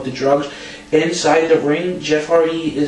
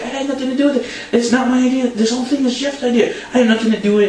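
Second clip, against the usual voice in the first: high-pitched mock pleading; Ric Flair; 9 semitones higher, faster than usual. Co-host retells wrestler denying blame while choked, mock pleading. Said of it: "Flair's like".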